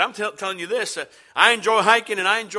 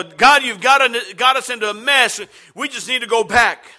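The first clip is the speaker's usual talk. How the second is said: complaining crowd; 3 semitones higher, 4 dB louder than usual. Retold or imitated. People complaining to God.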